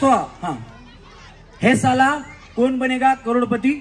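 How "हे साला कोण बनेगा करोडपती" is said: loud, punchy filmy delivery of the famous line; Amitabh Bachchan dialogue. Shown as a demonstration. Host demonstrating the KBC line to the contestant women, loud and filmy. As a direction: belt out the line like a film star. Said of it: "dialogue आहे अमिताभ बच्चन साहेबांचा".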